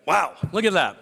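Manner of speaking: playful miracle proclamation; hammed-up wonder, rising into a whoop; mock amazement. Joking that water healed his throat.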